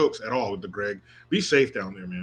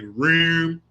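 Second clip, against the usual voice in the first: Baltimore room; 3 semitones higher than usual. Retold or imitated. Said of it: "when she calls her family back Eastern".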